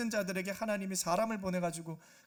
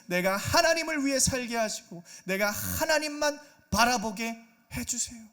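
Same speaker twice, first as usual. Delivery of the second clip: louder, rising impassioned prayer; fervent confession; 3 semitones higher, 6 dB louder than usual. Acted. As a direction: pour out repentance with growing fervor. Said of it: "그게 상한 심령의 고백이에요". (점점 격해지는 간절한 회개 기도)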